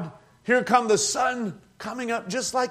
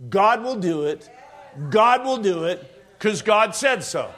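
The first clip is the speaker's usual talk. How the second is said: preaching shout. Real, not acted. Preacher shouting his point.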